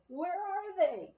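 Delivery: high, loud and slow demand; shouting. A narrator's reading. Woman demanding from the clerk where her skis are, loud and high. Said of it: "I shouted at him".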